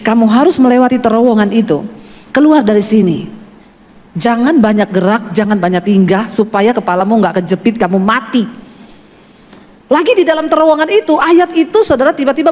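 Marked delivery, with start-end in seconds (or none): 0.0-8.4 lightly voiced unseen guide, lower; low, measured warning, retold; voice from a vision, retold. Voice guiding the speaker through a narrow tunnel, lightly voiced low warning. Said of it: "Lalu ada suara yang bilang begini".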